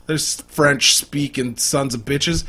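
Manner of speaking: a bad, hammed-up French accent on the line; mock French accent. Friend mocking Quebec, in a bad French accent. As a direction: fake French, barely put on. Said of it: "That was a horrible French accent".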